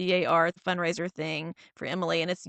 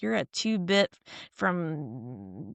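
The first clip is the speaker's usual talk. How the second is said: mild mock put-down; slower than usual. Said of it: "then just lays into her like".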